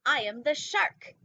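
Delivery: slow, loud, big announcement of the title; a slow loud dramatic title read. Acted. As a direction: boom it out like a movie trailer. Dramatic reading of book title.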